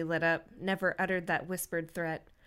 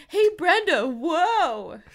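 higher, loud friendly call; 9 semitones higher, 7 dB louder, much slower than usual. Acted. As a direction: call across the street. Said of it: "he calls".

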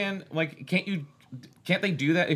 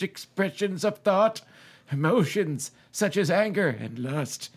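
committed narrator voice. Acted. Host reading a novel aloud in a committed narrator voice. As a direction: read it out with a narrator's measured formality.

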